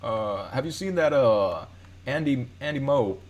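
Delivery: lightly attempted presidential impression, halting with filler pauses; a hint of a famous politician's voice, imperfectly done; Obama impression. Shown as a demonstration. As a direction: try a rough, hesitant impression of a president. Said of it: "do a good Obama".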